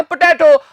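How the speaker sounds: पोटैटो with a short open "tat" middle; the common wrong पोटैटो, vowel as in "cat"; common mispronunciation. Shown as a demonstration. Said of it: "सभी तो बोलते हैं".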